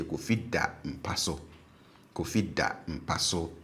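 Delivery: DA low in "Kofi da mpaso"; stative low tone. Shown as a demonstration. Teacher models what is happening as we speak, DA low. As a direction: keep DA down, level with the phrase. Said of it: "syllables with a low tone".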